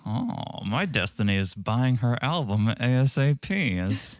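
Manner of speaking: lightly put-on, subdued parody voice; Sandy impression. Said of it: "that's exactly how Sandy sounds".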